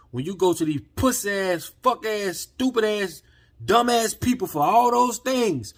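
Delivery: heated street-preacher rant, climbing; rising rant. Real, not acted. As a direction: pile the insults up, angrier each one. Ranting insults at powerful people.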